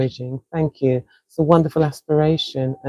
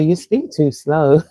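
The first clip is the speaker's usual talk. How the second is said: slowed-down imitation of a listener; slow mock quote. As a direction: drag the words out slowly. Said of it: "Other people say".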